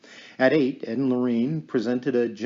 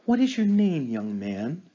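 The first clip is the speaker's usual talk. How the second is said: commanding call; 3 semitones higher than usual. Acted. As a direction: call out firmly to the unseen. Medium calling the spirit.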